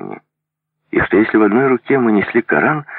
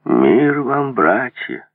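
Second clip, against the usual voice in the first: raised, ceremonial greeting; solemn voice; 4 semitones higher, much slower than usual. Acted. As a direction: greet them like a holy envoy. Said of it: "сказал он торжественным голосом".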